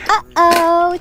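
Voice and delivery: normal talking voice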